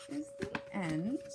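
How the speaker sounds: slow whispered ending. Acted.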